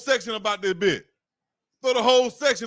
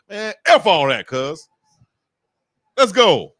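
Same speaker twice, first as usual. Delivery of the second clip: riled-up fan commentator; 7 dB louder, slower than usual. Acted. Fan mocking stiff commentators, riled-up outburst. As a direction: throw off the formal act and fire up. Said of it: "And I'm like".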